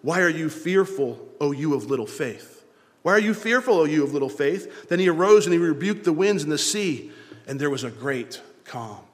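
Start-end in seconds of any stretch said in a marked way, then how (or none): 3.0-4.9 emphatic rebuke. Retold or imitated. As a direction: press the rebuke hard on fearful. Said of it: "And he said to them".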